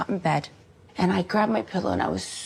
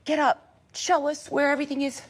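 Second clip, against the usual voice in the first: imitating robber; 6 semitones higher than usual. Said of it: "he said".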